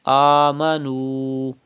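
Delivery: آمنوا with the final waw held for two counts; stretched waw. Shown as a demonstration. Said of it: "Stretch up to two harkat".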